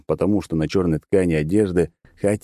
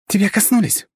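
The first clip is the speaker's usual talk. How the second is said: put-on thin childish shout; 14 semitones higher than usual. Girl shouting right into his ear in a thin childish voice. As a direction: yell it in a thin kid's voice. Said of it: "неожиданно тонким, чуть не ребячим голосом закричала".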